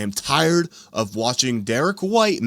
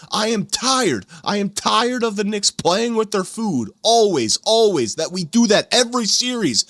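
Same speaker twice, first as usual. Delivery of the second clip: angry rant; 5 semitones higher than usual. Real, not acted. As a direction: vent it hard, all the frustration out. Fan rants at his team's coach.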